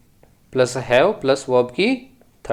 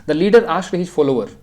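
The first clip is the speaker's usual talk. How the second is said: slow read-aloud; 2 semitones higher, much slower than usual. Shown as a demonstration. Teacher reads the question again.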